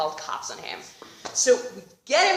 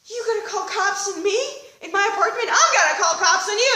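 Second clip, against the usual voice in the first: higher, louder indignant retort; mock-outraged disbelief; incredulous comeback; 8 semitones higher, 5 dB louder, faster than usual. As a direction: throw his threat back at him. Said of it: "And I'm like".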